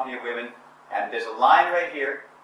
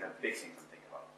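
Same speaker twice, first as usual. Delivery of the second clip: big-thinker voice; 8 semitones lower, 20 dB quieter than usual. Shown as a demonstration. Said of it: "See the difference?".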